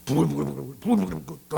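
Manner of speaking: imitated boiling-over anger; seething, bubbling noise. Preacher showing anger boiling inside, seething bubbling noise. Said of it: "화를 내고 싶어요".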